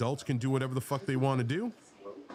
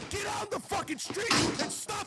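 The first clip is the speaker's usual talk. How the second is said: much higher, raw yelling; furious shout. Real, not acted. Host yelling at opponents to take to the streets. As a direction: keep screaming the dare.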